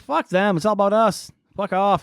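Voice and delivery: mock dismissive. Co-host imitating occultists snubbing the country, mock dismissive. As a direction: toss it off as someone selfishly walking out.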